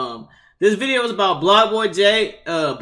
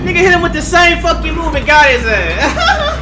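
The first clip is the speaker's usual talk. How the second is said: laughing; 7 semitones higher than usual. Real, not acted. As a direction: crack up while talking. Laughs at the move.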